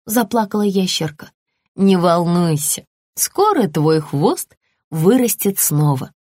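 put-on a mother soothing her scared child; calm mother lizard, reassuring.

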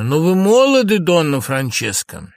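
sorrowful wail sinking at the end; sad. Acted. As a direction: cry it plaintively, slowing on the name. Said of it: "Лоренцо печально".

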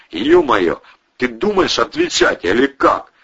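exasperated demand. Acted. Protasov losing patience.

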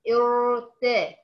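ارت stretched very slowly as a fragment; pronunciation demo. Shown as a demonstration. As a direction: drag out ارت and break off. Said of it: "وقفت وبدأت بكلمة ارتضى".

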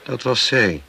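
husband shouting the reveal. Acted. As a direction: shout the truth out.

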